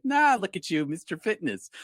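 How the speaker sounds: high, loud scoffing tease; teasing dismissal. Retold or imitated. Yoga teacher scoffs at him, mock teasing. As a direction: brush it off with a laugh. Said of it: "She's like".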